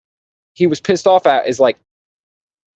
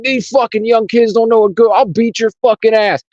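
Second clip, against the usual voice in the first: put-on old man; 7 semitones higher than usual. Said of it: "And he's like".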